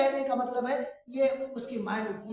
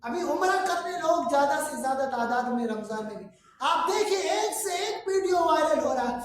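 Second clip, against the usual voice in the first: raised, higher-pitched sermon voice; impassioned preaching; 6 semitones higher, 5 dB louder than usual. Real, not acted. Preacher lamenting lost sincerity to congregation, impassioned. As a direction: preach it out with force.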